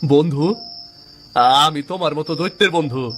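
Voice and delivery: can't believe a demon wants to be your friend; incredulous surprise. Acted.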